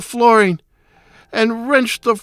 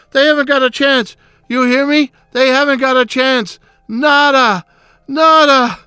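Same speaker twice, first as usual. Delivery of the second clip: heated arguing; 2 semitones higher than usual. Acted. Murderer arguing over trifles to cover the sound, heated. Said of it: "even began to argue over trifles".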